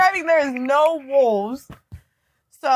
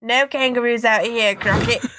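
put-on jokey Australian accent. Mock tourist asking about kangaroos, put-on Australian accent. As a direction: play a pretend Aussie asking casually. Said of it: "the fucking Australian accent comes out".

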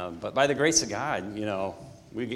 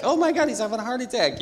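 higher, louder imitation of a frantic girlfriend; panicked girlfriend; 14 semitones higher, 6 dB louder, faster than usual. Retelling the fiancée's heart attack scare, mock panic. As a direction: act out her panic in a rush. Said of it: "freaking out 'cause she's like".

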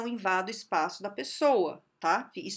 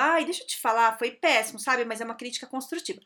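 louder, smug put-down, fast at the end; fake constructive critic; 4 dB louder than usual. Imitating the colleague hiding a jab as constructive criticism, smug. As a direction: sneer it out as "constructive". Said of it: "aquele papo de crítica construtiva".

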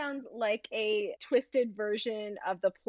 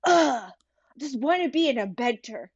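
put-on child's whine. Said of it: "He just blurted out".

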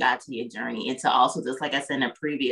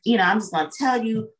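mock know-it-all; 4 semitones higher than usual. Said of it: "if you come off like".

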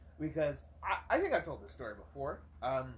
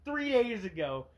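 ranting; 4 dB louder than usual. Retold or imitated. Ranting at the customer in his head.

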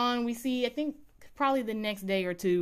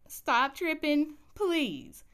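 begging a TV character to stop being difficult; exasperated plea; 7 semitones higher, much slower than usual. Retold or imitated. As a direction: stretch it out like you've had enough. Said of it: "I start getting upset with Bet".

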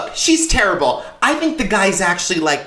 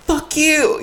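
retold snap; 10 semitones higher than usual. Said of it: "I'm like".

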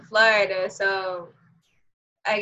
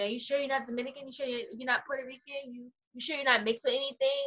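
quizzing teacher; 3 semitones higher, 10 dB quieter, faster than usual. Retold or imitated. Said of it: "She kept asking me".

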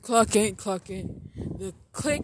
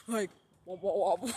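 imitating a shaken cardboard sound; mock wobble noise; 4 semitones lower, faster than usual. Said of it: "that sound it make when you shake it".

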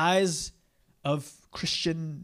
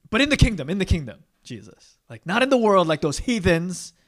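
mock protest; 3 semitones higher, 6 dB louder than usual. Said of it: "but they're like".

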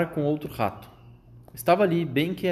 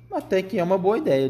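brightening up, higher pitch; animando-se um pouco; 6 semitones higher, 3 dB louder than usual. A narrator's reading. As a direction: warm to the idea, voice lifting. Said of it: "animando-se um pouco". (mais animado, tom mais agudo)

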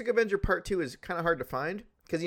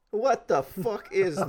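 laughing disbelief; 3 semitones higher, slower than usual. Retold or imitated. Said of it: "I was like".

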